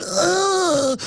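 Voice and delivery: high, drawn-out mock whimper; imitated squeamish groan; mimicked disgust. Trendy holding the magazine, mock disgusted moan. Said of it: "And he went".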